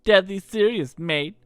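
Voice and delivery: put-on cocky young troublemaker; Kid voice. Kid teasing Serge, lightly voiced brash girl. Kid's voice.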